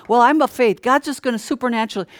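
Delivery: a hint of a smug believer brushing off warnings; mocking pious voice.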